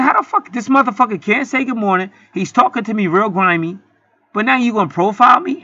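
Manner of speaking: sharp, high-pitched outraged retort; snapped. Retold or imitated. Snapping back at the bank officer who wants his license. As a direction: fire back, offended and indignant. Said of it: "And I snapped".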